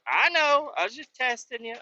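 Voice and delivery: high put-on voice; imitated teasing coworker. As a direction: voice her kidding around.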